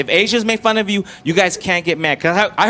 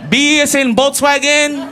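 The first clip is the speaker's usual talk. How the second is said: put-on Filipino accent; 5 semitones higher than usual. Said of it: "That's how Filipinos talk".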